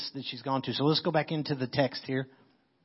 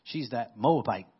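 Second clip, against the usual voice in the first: sneering; 3 semitones lower than usual. Acted. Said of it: "like a racist statement".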